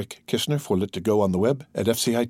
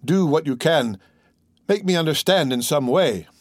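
higher-pitched, urgent appeal; imploring cry; 4 semitones higher than usual. Acted. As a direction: plead with the old man for help. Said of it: "cried he".

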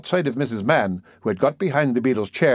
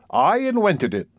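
slow, puffed-up proud beadle; 9 semitones higher than usual. A narrator's reading. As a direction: announce it with great pride. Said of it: "drew himself up with great pride".

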